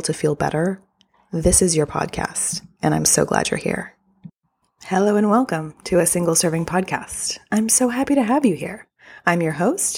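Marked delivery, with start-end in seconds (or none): 4.9-10.0 lightly sing-song cabin-crew greeting; flight attendant voice. Real, not acted. Host greets podcast listeners, slightly like a flight attendant. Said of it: "elected to talk like a flight attendant".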